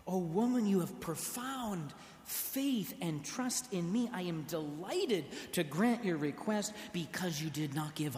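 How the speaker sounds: lightly voiced tender Jesus; a touch of warm praise; delighted, loving. Preacher voices Jesus, gently pleased with her. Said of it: "I don't think he said it with that tone".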